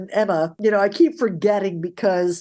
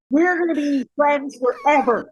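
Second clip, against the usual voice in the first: gushing, higher-pitched mock declaration; gushing excitement; 5 semitones higher than usual. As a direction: gush it like instant best friends. Gushing mock exchange of instant friendship.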